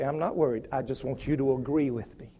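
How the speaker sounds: very low, hushed and unbothered; soft, low private reassurance; calm unworried answer. Acted. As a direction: say it quietly, with nothing to prove.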